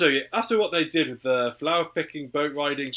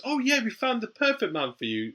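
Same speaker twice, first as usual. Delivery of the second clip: much higher, sing-song auntie announcing a match; mock auntie voice; 10 semitones higher than usual. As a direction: play the meddling auntie, pitched way up. Auntie voiced in film retelling.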